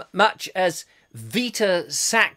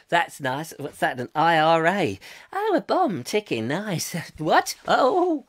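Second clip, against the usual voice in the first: hammed-up beggar; 2 semitones lower than usual. Playing a beggar in his hat.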